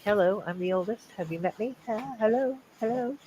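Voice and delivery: mock showing off. Mock self-announcement.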